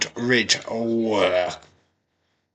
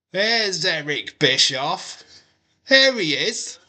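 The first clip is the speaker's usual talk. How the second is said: high, rising call of a name; excited announcing; 10 semitones higher than usual. Real, not acted. Fan watching NXT calls out Bischoff's return, much higher and thrilled. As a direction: hail his arrival, thrilled.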